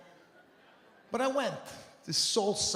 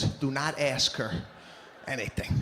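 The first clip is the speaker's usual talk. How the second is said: usual speaking voice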